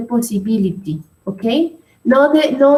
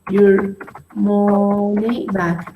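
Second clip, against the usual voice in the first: slow repeat; slower than usual. Shown as a demonstration. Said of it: "can you repeat?".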